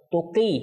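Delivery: তুকি with the "qee" held; one-alif madd. Shown as a demonstration. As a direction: lengthen the last vowel of তুকি. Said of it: "এটা এক আলিফ মদ করব". (তুকি এক আলিফ টেনে)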